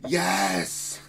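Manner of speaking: loud, drawn-out mock yes; gleeful cheer. Streamer imagining meeting a relic Phoenix team, gleeful cheer. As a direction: cheer it like an easy win just landed.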